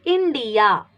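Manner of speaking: "India" starting on a short "ih"; teacher showing the short "ih" in "India"; short I sound. Shown as a demonstration. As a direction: say "India" with a short first vowel, as in igloo. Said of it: "this I has short sound".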